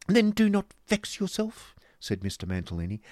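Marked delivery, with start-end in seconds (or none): 0.1-1.8 high, loud, gushing fop; theatrical doting husband, pitched way up; affected husband. Acted. Husband soothes pouting wife.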